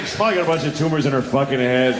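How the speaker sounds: fast, dismissive mock-doctor; callous doctor's thoughts. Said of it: "what he was thinking".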